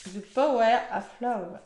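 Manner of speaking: French speaker trying an English accent. Shown as a demonstration. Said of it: "Je prends l'accent anglais". (accent anglais imité)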